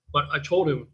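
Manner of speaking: ordinary delivery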